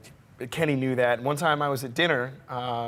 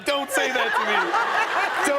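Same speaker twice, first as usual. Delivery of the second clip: overwhelmed plea; 13 semitones higher, 5 dB louder than usual. Retold or imitated. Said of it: "I started crying again".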